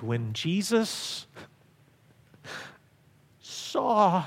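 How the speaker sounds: very slow, hushed, long pauses; slow solemn reading. Acted. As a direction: let each word land reverently.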